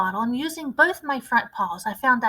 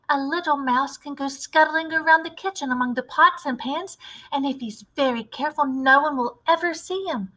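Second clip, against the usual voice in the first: put-on higher, bright boy's voice explaining his idea; a keen little boy with a clever plan; eager mouse boy; 4 semitones higher than usual.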